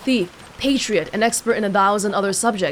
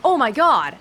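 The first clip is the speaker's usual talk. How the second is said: mock exclamation; 3 semitones higher than usual. Shown as a demonstration. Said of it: "Do they just mean exclaim?".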